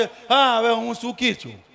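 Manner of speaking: mock surface-level agreement, softening away; half-hearted affirmation. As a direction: say it without meaning it from inside. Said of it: "ખાલી બહારથી નહીં".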